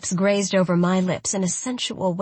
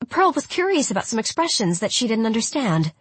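higher, eager tattling exclaim; 4 semitones higher than usual. Acted. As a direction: blurt it out eagerly.

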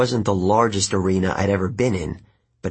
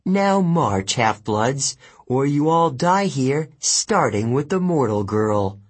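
commanding; 4 semitones higher than usual. Acted. Kelly threatening prisoners.

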